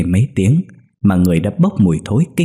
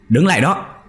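high, ringing shout to stop; shouted order; 8 semitones higher than usual. A narrator's reading. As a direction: order him to halt, much higher. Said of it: "liền quát lên".

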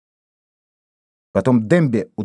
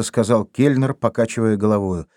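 plain reading voice

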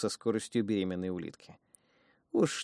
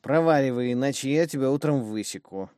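angry; 4 semitones higher, 6 dB louder than usual. Acted. Woman snaps at her daughter.

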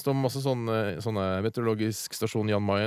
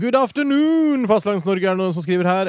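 mock formal greeting; 8 semitones higher, 6 dB louder than usual. Reading listener email in mock greeting.

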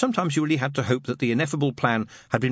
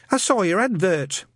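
put-on nervous young man; 9 semitones higher than usual. Newton's voice on phone.

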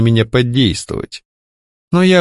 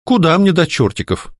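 higher, theatrically lilting tease; mock singsong; 7 semitones higher than usual. Heroine mocking the kidnapper's idiom, theatrical singsong. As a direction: sing it out in exaggerated play. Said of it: "наигранно пропела я".

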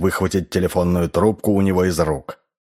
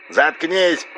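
high, filtered outburst over the phone; angry roar; 10 semitones higher than usual. A narrator's reading. RS silences Garrison by phone, angry roar. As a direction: cut him off furiously. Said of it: "взревел Р С".

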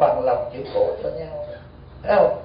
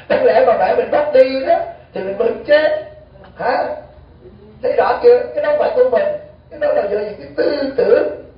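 laughing; 9 semitones higher, 5 dB louder than usual. Real, not acted. Mocking mourners, laughter heard.

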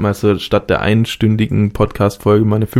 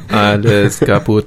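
put-on old speech synthesizer; slower than usual.

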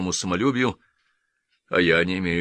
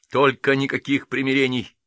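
hoarse and louder, higher; 6 semitones higher, 4 dB louder than usual. A narrator's reading. A lieutenant rasping at the duelists, hoarse. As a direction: rasp it out, choked with thirst for revenge. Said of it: "прохрипел он".

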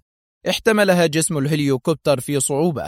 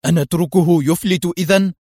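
louder, irritated retort; resentful; 4 semitones higher, 4 dB louder than usual. Acted. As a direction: snap back in annoyance. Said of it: "في حنق".

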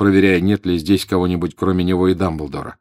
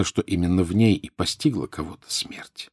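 ordinary delivery

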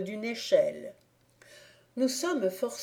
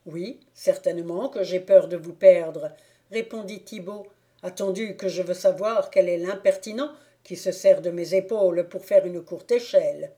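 put-on louder, indignant drunk clog-maker; tipsy Thibault; 4 dB louder than usual. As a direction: demand to know who used you.

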